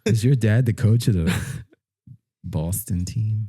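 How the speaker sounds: mock schoolkid voice, loud start then dragged out; taunting schoolkid. Kid at school asking about the coach dad, mock taunting. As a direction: needle them like a kid in the schoolyard. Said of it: "kids at school that are like".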